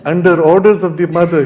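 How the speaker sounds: strong emphasis on "Under orders of the mother"; emphatic. Real, not acted. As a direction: punch the whole phrase with delight. Emphatic punchline of the story.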